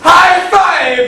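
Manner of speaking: loud high five call; excited shout. Acted. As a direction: yell it out. Shouted celebration.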